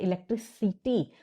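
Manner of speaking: इलेक्ट्रिसिटी with the stress on सिटी; stress on CITY. Shown as a demonstration. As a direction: punch the सिटी part of इलेक्ट्रिसिटी. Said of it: "सिटी पे हमारा stress है".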